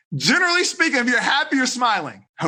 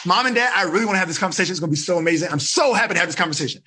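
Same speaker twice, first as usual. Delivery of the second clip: happy opener; 3 semitones lower, much faster than usual. Shown as a demonstration. Ava opening talk with her parents brightly. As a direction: sound thrilled to talk. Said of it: "So Ava, you'd be like".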